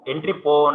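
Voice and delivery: "entry port" said as "entry po"; silent T. Shown as a demonstration. Teacher correcting the class, T left silent in "port". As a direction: end "port" on an open "po", dropping the T. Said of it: "T is silent".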